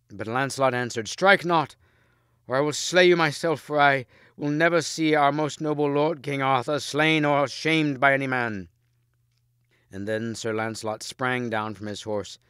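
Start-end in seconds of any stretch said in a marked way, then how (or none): 1.1-8.7 high, loud stern order; commanding shout. A narrator's reading. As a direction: stop his hand with a shout. Lancelot stops Bors by force.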